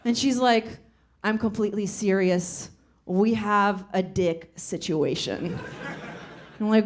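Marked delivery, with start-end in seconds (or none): 1.2-5.6 slightly lowered deadpan, slowing down; dead serious. Retold or imitated. Aunt insisting to her niece, understated dead-serious tone. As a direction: imitate a grave aunt, understated. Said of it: "dead serious".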